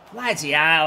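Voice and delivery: exasperated loud "Bloody hell"; loud curse. Real, not acted. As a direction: blurt "Bloody hell" loudly at the miss. Groaning at a missed chance.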